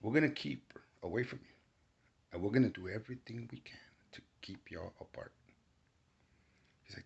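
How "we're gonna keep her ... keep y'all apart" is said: soft, hushed demon voice; eerie whisper. Retold or imitated. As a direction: whisper it like a spirit. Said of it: "he spoke to me telepathically".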